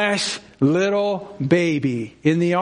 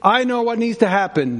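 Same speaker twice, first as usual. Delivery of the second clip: proud Paul; 3 semitones higher than usual. Pretend. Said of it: "He could have said".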